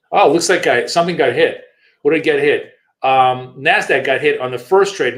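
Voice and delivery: sudden loud surprise at the screen; surprised. Real, not acted. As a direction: blurt it out as the trade gets hit. Notices a trade got hit.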